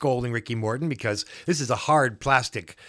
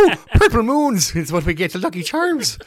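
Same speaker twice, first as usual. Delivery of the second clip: high, laughing jingle voice; sing-song it like a cereal commercial; mock cereal ad; 7 semitones higher, 3 dB louder than usual. Host joking about wrestler's purple trunks, laughing ad voice.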